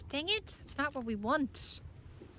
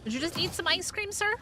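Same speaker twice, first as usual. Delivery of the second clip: mock accusing; 3 semitones higher, 5 dB louder than usual. Teasing the pet creature.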